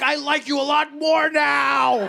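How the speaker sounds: high, slow, laughing gush of devotion; mock tearful gushing fan. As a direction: blubber it out, overwhelmed. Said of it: "He's like".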